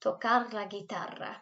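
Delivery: teacher models Spanish for class to repeat; model Spanish pronunciation. Shown as a demonstration. Teacher to pupils, modelling Spanish pronunciation clearly. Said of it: "repeat after me".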